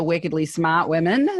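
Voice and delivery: wickedly smart in a New England accent, r dropped in smart. Shown as a demonstration. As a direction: drop the r, New England style. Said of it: "I'm using our New England accent there".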